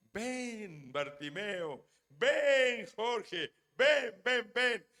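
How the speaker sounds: llamada insistente, aguda, cada vez más fuerte; llama a alguien para que venga; llamando. Acted. Voz de Jesús llamando al ciego. (llamando con insistencia, en voz alta)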